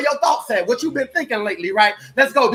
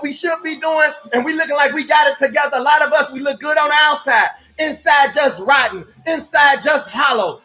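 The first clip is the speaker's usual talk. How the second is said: fiery preaching. Real, not acted. Preaching build to the crowd.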